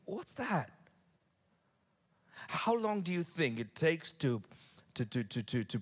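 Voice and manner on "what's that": high, startled what's that; startled question. Retold or imitated. A listener startled by noises on the roof, high surprised voice. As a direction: jump at a noise overhead.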